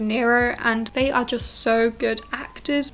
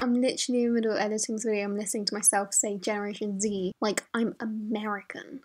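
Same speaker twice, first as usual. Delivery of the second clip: hushed editing voice-over; 3 semitones lower, 8 dB quieter, faster than usual. Real, not acted. Low voice-over added while editing.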